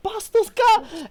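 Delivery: high, slow scolding shout of a mother; angry mom yell. Retold or imitated. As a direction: scold him like an outraged mom. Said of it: "She's like".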